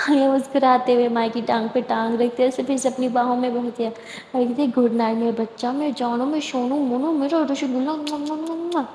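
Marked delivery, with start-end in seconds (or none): 4.8-8.8 put-on soft, slow baby-talk cooing; cooing endearments. Aliya cooing good night to Maya, soft and slow. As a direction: coo pet names tenderly.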